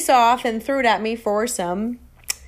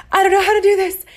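much higher and louder, a strained, wailing plea; near-wailing despair; 10 semitones higher, 6 dB louder, faster than usual. Retold or imitated. Repeating the plea to her boyfriend, much higher and louder, wailing. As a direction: push it to the breaking point of a wail. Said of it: "And I said".

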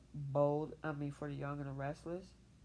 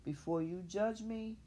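calm, even, a touch higher; nice calm voice; 4 semitones higher than usual. Pretend. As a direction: say it kindly, keeping composure. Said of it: "in a nice, calm voice".

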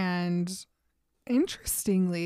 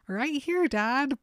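pitched up, a stranger's voice coming out of her; not her usual voice; 5 semitones higher, slower than usual. Retold or imitated. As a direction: say it like the voice isn't yours. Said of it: "but it's not a Bella voice".

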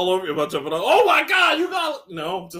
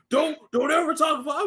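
a high, raised mock yell of an irritated friend; mock angry friend; 12 semitones higher than usual. Friend scolding him on the phone, a high mock yell. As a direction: blurt it like a fed-up buddy.

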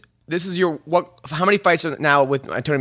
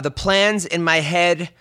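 slow, measured reading of a tweet; deliberate read-aloud; slower than usual. Acted. Host reads the fighter's tweet back to him, slow and deliberate. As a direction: read it out slowly, phrase by phrase.

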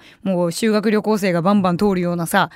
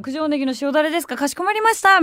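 higher, service-counter politeness; polite clerk; 6 semitones higher than usual. Retold or imitated. Clerk confirms the off-menu order, high polite voice. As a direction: repeat the order back like a cheerful waiter.

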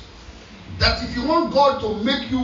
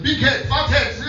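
higher-pitched mock insults; playful cursing; 5 semitones higher than usual. Preacher retells insulting a Lagos colleague, mock cursing. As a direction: hurl comic insults through a laugh. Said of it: "Why are you cursing me?".

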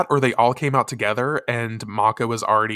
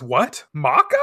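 shocked; 4 semitones higher, slower than usual. Retold or imitated. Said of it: "Usagi says".

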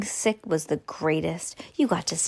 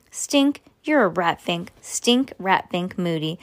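name-calling. Acted. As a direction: sneer at your little brother. Sister name-calling brother.

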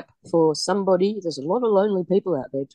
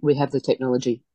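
mouth full; 3 semitones lower than usual. Real, not acted. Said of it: "I'm just eating a banana".

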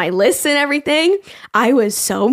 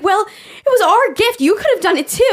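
mock whiny blame; 10 semitones higher than usual. Blaming husband, whining.

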